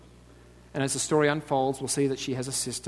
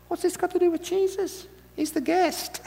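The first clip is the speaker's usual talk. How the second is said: incredulous aside. Acted. Mocking aside in high voice.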